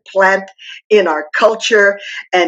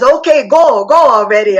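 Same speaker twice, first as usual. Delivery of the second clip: raised, pushed-out dismissal; exasperated go already; 2 semitones higher, 4 dB louder than usual. Retold or imitated. Papa telling her restless husband to go, exasperated. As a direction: shoo him off, fed up.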